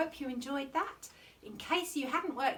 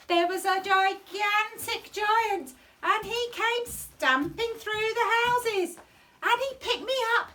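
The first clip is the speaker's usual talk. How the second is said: dramatic telling; 7 semitones higher, 6 dB louder than usual. Acted. Claire tells giant story dramatically.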